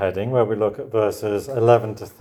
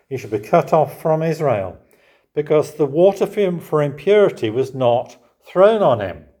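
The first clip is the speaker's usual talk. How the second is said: louder, higher scripture line; solemn reading; 6 semitones higher, 6 dB louder than usual. Real, not acted. Preacher reading the verdict aloud, grave. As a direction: declare it gravely. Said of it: "continued reading".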